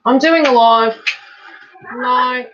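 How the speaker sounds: loud, stress on "doing", shooing her away; "doing" pushed hard and loud, the word "doing" dominant; firm telling-off. Real, not acted.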